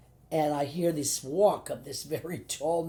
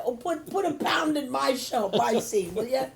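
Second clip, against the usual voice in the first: higher, louder eager begging; eager plea; 8 semitones higher, 5 dB louder than usual. Retold or imitated. Actress begging Neil Simon for jokes, eager and loud. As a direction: beg the famous writer for jokes, bright and pushy. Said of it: "I said".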